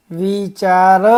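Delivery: વિચાર with long held vowels. Shown as a demonstration. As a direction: stretch વિચાર out syllable by syllable. First slow reading of the word list.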